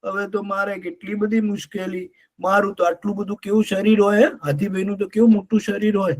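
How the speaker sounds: a touch of whiny sobbing elephant; mock crying. Elephant whimpers to friends about the shrinking lake, mildly tearful. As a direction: lament lightly, like a big crybaby. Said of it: "રડવા માંડ્યો".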